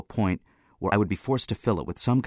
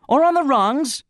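high, loud outburst; bursting in; 8 dB louder than usual. A narrator's reading. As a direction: burst in over the questioner. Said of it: "I burst in".

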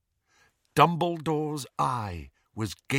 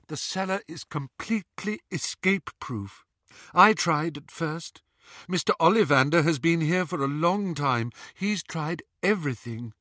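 Luna voice; 4 semitones higher than usual. Acted. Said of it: "said Luna".

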